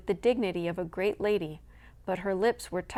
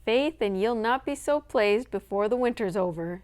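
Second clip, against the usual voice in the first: a light Irish brogue, louder; 2 semitones higher, 4 dB louder than usual. Acted. Irish servant warning over the fence, Irish brogue. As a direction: warn them in an Irish lilt. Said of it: "wagged her head".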